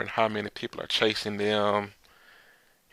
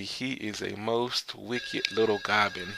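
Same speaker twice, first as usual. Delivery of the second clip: grumbling mock accusation. Men grumble about Momonosuke.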